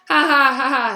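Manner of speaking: flat, joyless ha ha ha; bleak fake laugh. A narrator's reading. Harry to Malfoy over the clipping, bleak laugh. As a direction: force a laugh with no joy. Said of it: "said Harry bleakly".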